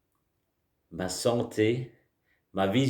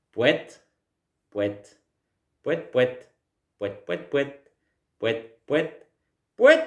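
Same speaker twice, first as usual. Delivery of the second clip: silly clown; 3 semitones higher, slower than usual. Shown as a demonstration. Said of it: "On y va".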